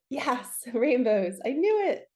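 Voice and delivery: high, laughing burst of delight; real thrill at being proven right; excited squeal. Real, not acted. Reader cheering when rainbow card confirms her call.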